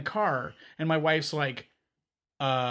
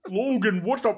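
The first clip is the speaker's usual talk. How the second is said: sharp surprised shout at his son, louder and higher; startled yell; 7 semitones higher, 6 dB louder than usual. Retold or imitated. Father yelling at his son Logan after gas in the mouth, startled shout. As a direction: bark his name in shock.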